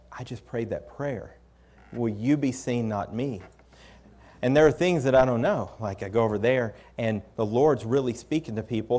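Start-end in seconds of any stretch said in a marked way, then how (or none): 0.1-3.4 quiet awe. Retold or imitated. Awed recollection of his prayer.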